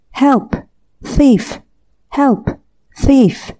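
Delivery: high pitched cries of help and thief; yelling for help. A narrator's reading. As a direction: call out to the whole street. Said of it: "yelled at the top of his voice".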